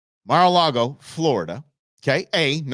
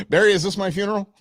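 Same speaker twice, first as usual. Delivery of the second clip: confused Biden mock; 5 semitones higher, faster than usual.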